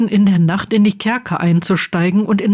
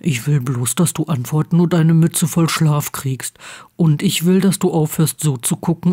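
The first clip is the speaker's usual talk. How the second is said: lightly voiced exasperated friend, slightly lower; a touch of annoyed pleading; Ron, Harry's friend; 3 semitones lower than usual. Ron scolds moping Harry, lightly voiced annoyed friend.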